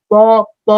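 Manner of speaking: প released cleanly through the mouth; clear oral sound. Shown as a demonstration. Teacher contrasts with nasal letters, clear oral sound. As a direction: say প, প free of any nasal sound. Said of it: "কিন্তু প উচ্চারণ করেন".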